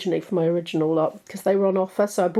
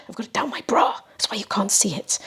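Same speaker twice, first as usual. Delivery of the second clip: whispering. Real, not acted. Confiding where the mic is.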